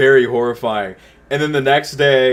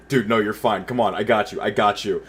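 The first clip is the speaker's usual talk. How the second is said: lower, slightly softer imitated comfort; steady someone back from the brink; soothing reassurance; 4 semitones lower, 5 dB quieter than usual. Duolingo bird pulling him from the edge, reassuring.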